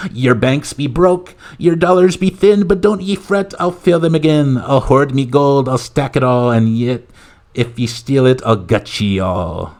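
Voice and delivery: high Irish leprechaun chanting a rhyme; hammed-up Irish brogue, pitch sinking to the threat; thick Irish accent. Leprechaun warning the nation over gold, sing-song Irish accent. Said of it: "in a thick Irish accent".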